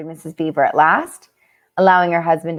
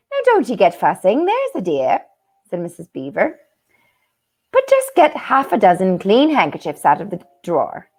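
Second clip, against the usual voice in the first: put-on wobbly Irish accent. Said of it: "Her accent is all over today".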